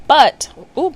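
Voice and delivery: startled ooh. Real, not acted. Hitting the microphone by accident.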